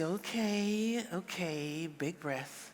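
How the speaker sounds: steadying yourself when triggered; calming yourself. Acted. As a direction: talk yourself down to quiet. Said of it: "to say".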